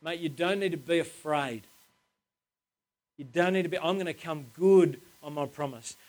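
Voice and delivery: gentle, softened reassurance; understated tender comfort; compassionate. Retold or imitated. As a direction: reassure a mate kindly, voicing God. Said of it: "really compassionately says to him".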